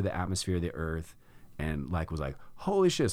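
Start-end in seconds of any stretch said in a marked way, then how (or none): 2.6-3.1 much higher, stunned "Holy shit"; shocked exclamation. Retold or imitated. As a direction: blurt it out in sudden awe. Retold shock floating out of body.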